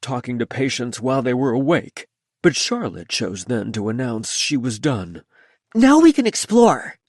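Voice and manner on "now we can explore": loud, high carnival barker. A narrator's reading. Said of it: "she announced in her carnival barker voice".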